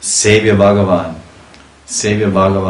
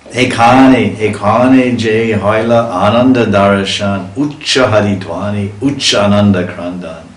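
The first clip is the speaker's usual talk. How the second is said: verse recitation; 4 dB louder than usual. Acted.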